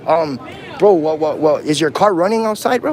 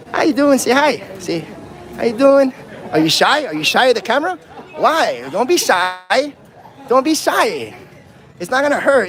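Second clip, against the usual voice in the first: higher-pitched, singsong coaxing; teasing coaxing; 4 semitones higher than usual. Real, not acted. Coaxing someone shy of the camera.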